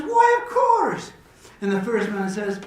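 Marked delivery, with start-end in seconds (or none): 0.0-1.1 high, loud and drawn-out; slow, booming joke-character reply; hearty acceptance. Acted. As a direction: gladly take the offer, hammed up. Joke character gladly accepts drink.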